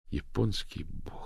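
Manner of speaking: soft, slow inner curse; thought to herself. A narrator's reading. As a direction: mutter it in her head. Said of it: "подумала Дафна".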